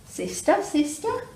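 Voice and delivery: high calls echoing; quacking duck. Acted. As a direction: call into the cave like an echo. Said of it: "She quacked".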